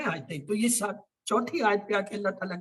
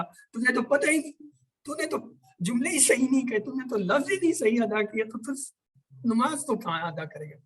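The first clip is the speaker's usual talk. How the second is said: raised, scolding voice; stern rebuke; 4 semitones higher than usual. Retold or imitated. Teacher voicing God's rebuke on Judgment Day: stern. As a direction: scold the careless servant. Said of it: "قیامت کے دن".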